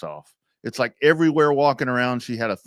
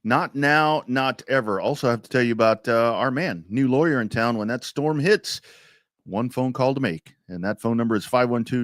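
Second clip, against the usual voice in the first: ad read. Acted. Reads lawyer ad.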